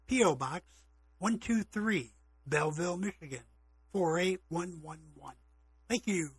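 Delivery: free ad read. Real, not acted. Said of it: "here's a free ad".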